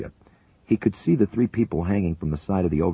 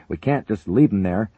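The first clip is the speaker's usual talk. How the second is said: loud, higher plea; shouting; 6 semitones higher, 7 dB louder than usual. A narrator's reading. Co-pilot refusing to leave the crew, shouting. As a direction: insist over the noise. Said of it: "Higgins shouted".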